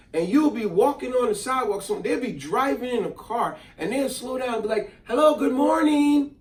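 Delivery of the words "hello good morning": friendly greeting. Retold or imitated. Friendly drivers greeting passersby.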